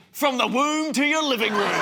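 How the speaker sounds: hammed-up sports channel announcer; mock sports promo. Announcing a birth like an ESPN event, mock sports promo. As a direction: sell it like a big game promo. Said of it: "it's like an E S P N event".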